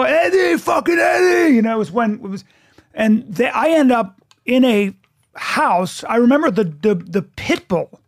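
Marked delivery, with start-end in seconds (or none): 0.0-1.5 higher yelled call for Eddie; retold party yell. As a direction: shout across the room for Eddie. Calling out at a party.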